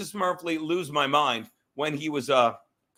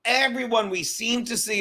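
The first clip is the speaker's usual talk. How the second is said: raised "everyone", then a deliberate "we seem to see"; emphasis on key words; 5 semitones higher than usual. Real, not acted. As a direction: stress the qualifier "we seem to see". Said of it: "here's two very important words".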